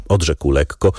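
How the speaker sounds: ordinary delivery, nothing marked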